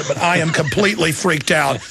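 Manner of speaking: a real nervous laugh breaking into the words. Real, not acted. Radio host admits to his guest he's freaked out, laughing nervously. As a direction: laugh it off, rattled. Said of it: "I'm sorry to be getting emotional here".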